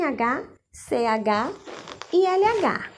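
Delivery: letters C H and L H spelled slowly; name each letter pair clearly; letter spelling. Shown as a demonstration. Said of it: "circular de vermelho as palavras". (soletrando C H e L H devagar)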